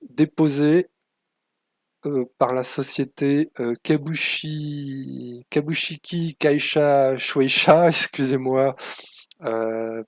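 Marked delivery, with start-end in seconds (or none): 3.8-7.9 slow, effortful reading of "Kabushiki Kaisha Shueisha", syllable by syllable; stumbling over "Kabushiki Kaisha Shueisha"; careful foreign pronunciation. Real, not acted. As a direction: sound out "Kabushiki Kaisha Shueisha" slowly, unsure of the Japanese. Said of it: "pour la prononciation".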